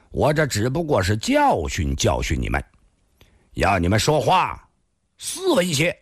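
measured, disdainful rebuke; icy contempt, kept understated; cold. Acted. Thin man lecturing the men he slapped, coldly. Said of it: "冷冷地说道".

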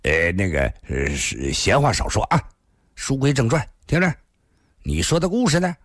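hesitant, then pressing for the point; a touch of irritation with filler stumbles; mildly impatient. Acted. Purple-faced youth hurrying the storyteller on, mildly impatient. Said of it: "似乎有些不耐烦了， 皱着眉说道".

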